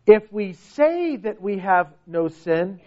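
"say" drawn out; slow line leaning on "say"; stress on SAY. Shown as a demonstration. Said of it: "notice this word".

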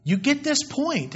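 P=A; stress on this. Real, not acted. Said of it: "I'm driving it home".

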